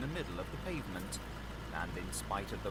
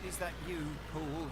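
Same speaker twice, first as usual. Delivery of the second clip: voice within; 7 semitones higher than usual. A narrator's reading. Voice asks from within.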